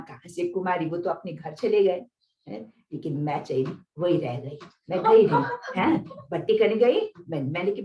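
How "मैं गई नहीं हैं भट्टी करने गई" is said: laughing, louder through the words. Real, not acted. Telling the interviewer how she stayed, laughing. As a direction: laugh as you admit it. Laughs while recalling her defiance.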